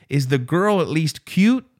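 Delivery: nosy driver in a put-on Mexican accent; light Mexican accent; Mexican accent impression. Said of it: "stereotypical Mexican accent".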